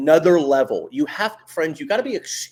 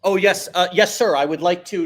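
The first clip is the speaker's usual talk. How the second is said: higher, eager-to-please office voice; corporate voice; 3 semitones higher, 4 dB louder than usual. Acted. Coach mocking how people talk at work, corporate voice. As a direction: put on a polite corporate voice. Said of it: "putting your corporate-y voice away".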